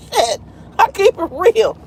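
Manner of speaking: slow words through laughter ending in a high laugh. Real, not acted. Joking to viewers about being fat, laughing through it. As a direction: keep it real while cracking up.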